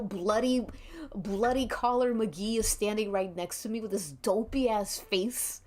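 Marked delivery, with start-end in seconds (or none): none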